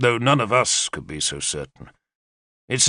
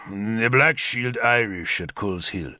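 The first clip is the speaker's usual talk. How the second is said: put-on Sagramore's foreign accent. Sagramore warns Arthur of the Irish, a hint of heavy foreign accent. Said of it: "he said in his execrable accent".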